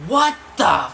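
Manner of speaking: high, slow, shocked cry; startled homeowner. Retold or imitated. Homeowner discovering kids in the house, high shocked yell. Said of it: "all of a sudden we hear".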